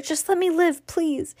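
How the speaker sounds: high frightened promise; panicked pleading. Acted. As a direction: beg in a panic. Boy begging for life.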